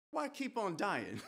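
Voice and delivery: drawn-out, chuckling punchline; amused laughing. Acted. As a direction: laugh at your own dark joke. Jokes about being dead, laughs.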